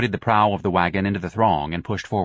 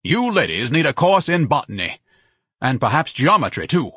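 higher, haughty put-down; condescending lecture; 5 semitones higher, 3 dB louder than usual. A narrator's reading. Ignatius mocks the ladies' botany, condescending. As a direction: talk down to them.

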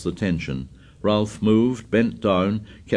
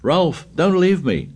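high frightened wail; 9 semitones higher, 4 dB louder than usual. Acted. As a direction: wail in panic. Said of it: "Piggy wailed".

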